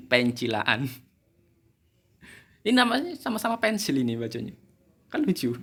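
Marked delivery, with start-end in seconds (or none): 0.1-0.9 "Pencilaan" drawn out slowly as pen-chi-la-an; joking misreading. Shown as a demonstration. Teacher playing with the misread word, slow joking pen-chi-la-an. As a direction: stretch "Pencilaan" slowly with ch, after a laugh.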